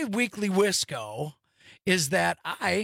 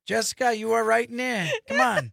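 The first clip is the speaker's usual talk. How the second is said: tough New York Italian; 5 semitones higher, 3 dB louder than usual. Pretend. Continuing tough-guy bit, shouting.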